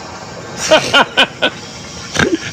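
high stuttering voiceless noise; imitated leak noise. Storyteller imitating what came after the flush, stuttering noise. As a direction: mimic the sound from downstairs in quick bursts. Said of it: "Exactly what it sounded like".

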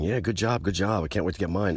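a hint of sarcastic fake enthusiasm; mocking eager people. Mimicking people cheering vaccinations.

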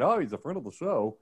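mock radio announcer; smooth hammed-up DJ voice. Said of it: "that was my radio voice, making fun of radio voice".

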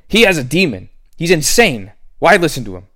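mock them as scoffers; accusing crowd. Crowd accusing Jesus of demon.

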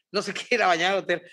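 fast, laughing through no se quiere ir a bañar al hotel; laughing repeat. Real, not acted. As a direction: rush it out giggling. (repetición rápida entre risas)

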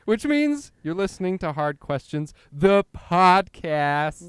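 announcer voice. Acted. Podcast title announced dramatically.

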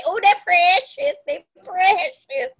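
drawn out, lightly doting; a touch of baby talk, slowed; cooing precious. Retold or imitated. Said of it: "That's why you say".

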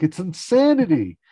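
very high, loud mock screech; hammed-up shrieking mother; Estelle shriek. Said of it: "Stell's like".

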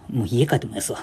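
retold small voice, deflated. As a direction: mumble it softly, defeated. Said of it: "ってちっちゃい声で言って".

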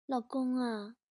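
soft, slow, sweet-talking; a normally rough wife suddenly going soft and sweet; unusually tender wife. Acted. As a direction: coax her husband gently and slowly. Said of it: "王嫂一反常态的温情".

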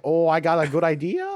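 badly faked Austrian accent; terrible Austrian accent. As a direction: attempt a clumsy Austrian accent, barely convincing. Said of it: "my terrible Austrian Nazi accent".

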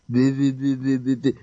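imitated unintelligible speech. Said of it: "basically what he was saying".

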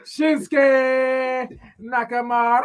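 high, slow, odd squawk; strange creature voice. Acted. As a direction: squawk it like an ostrich. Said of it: "How do you sound like the fucking thing".

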